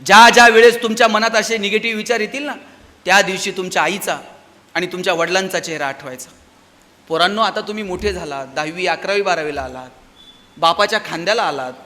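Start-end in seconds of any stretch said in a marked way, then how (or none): 3.1-11.7 lower, softened, heartfelt address; tender appeal. Real, not acted. Speaker reminding students of their parents, tender appeal.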